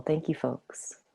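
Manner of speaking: soft whispered thanks. Real, not acted. Thanking the group after the check-in, whispered. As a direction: breathe the thanks out, no voice.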